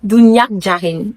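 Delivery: "le bis d'Ounyak Djarin" lent, en riant; laughing. Real, not acted. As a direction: dire le proverbe en riant de soi. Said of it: "je crois que j'ai retenu ça même". (récitation amusée en riant)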